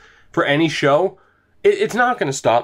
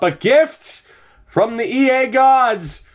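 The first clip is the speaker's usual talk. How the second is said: mock fanfare; 7 semitones higher, slower than usual. Hyped-up sarcastic celebration.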